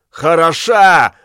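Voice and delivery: slow, loud mocking echo; indignant scoff. A narrator's reading. Accused man scoffing at the old witch, slow and indignant. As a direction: throw her word back in scorn. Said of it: "возмутился тот".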